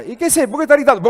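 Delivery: father yelling back at daughter, hammed-up anger; mock angry shout. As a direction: snap back at your daughter in a mock quarrel. Father voices shouting match with daughter.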